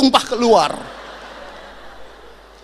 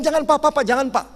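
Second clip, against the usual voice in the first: higher, urgent begging; pleading child; 6 semitones higher, 3 dB louder, faster than usual. Retold or imitated. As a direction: beg him to stop. Child begs father not to climb.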